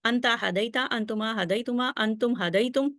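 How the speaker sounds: ہدیتم whispered, voiceless, as if a student repeating it under their breath. Shown as a demonstration. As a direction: whisper انتم ہدیتم to yourself. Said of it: "آپ خود سے بولیں".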